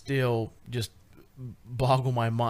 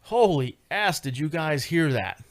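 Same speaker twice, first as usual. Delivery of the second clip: excited disbelief; 4 semitones higher, 4 dB louder than usual. Retold or imitated. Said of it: "and even I was like".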